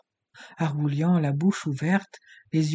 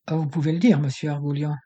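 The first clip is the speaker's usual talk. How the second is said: grave; 4 dB louder, faster than usual. Acted. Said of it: "avec gravité".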